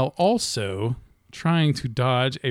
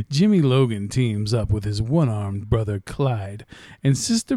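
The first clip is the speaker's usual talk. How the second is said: movie trailer voice; 2 semitones lower than usual. Shown as a demonstration. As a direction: build it up like a trailer. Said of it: "Movie trailer guy voice".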